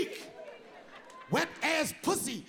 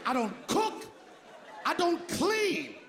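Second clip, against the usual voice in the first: quoting a rapper; 5 semitones higher, much slower than usual. Retold or imitated. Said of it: "Cardi B say".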